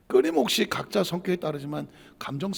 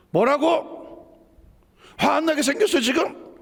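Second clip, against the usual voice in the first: high, indignant comeback; acted flare-up; 9 semitones higher than usual. Angry person answering someone who dismissed them, indignant. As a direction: snap back incredulously, pitch jumping up. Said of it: "화가 작각 올라오죠".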